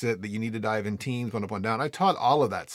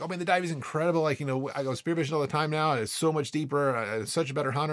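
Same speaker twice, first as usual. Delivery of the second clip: higher-pitched retold gushing; enthusiastic; 3 semitones higher, faster than usual. Student telling instructor about spearfishing, enthusiastic. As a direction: bubble over like a keen student.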